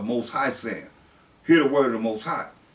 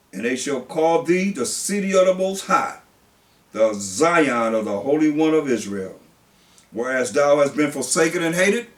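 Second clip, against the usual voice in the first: solemn pulpit reading; scripture reading; 4 dB louder than usual. Acted. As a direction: read it out like the word of God.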